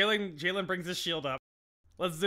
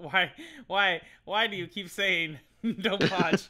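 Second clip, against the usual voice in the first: loud, higher-pitched playful protest; mock exasperation; 5 semitones higher, 6 dB louder, slower than usual. Real, not acted. Player to game master who said don't botch, mock exasperation. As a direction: wail the complaint in mock despair.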